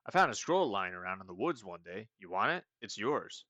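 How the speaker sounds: a hint of an easygoing stoner; carefree giveaway, lightly voiced. Meep offering Conrad a scroll, easygoing stoner voice. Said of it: "like, stoners".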